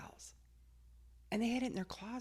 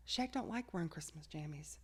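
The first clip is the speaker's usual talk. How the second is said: whispered aside, softer; 4 semitones lower, 6 dB quieter than usual. Real, not acted. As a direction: whisper it like a secret. Whispered confession.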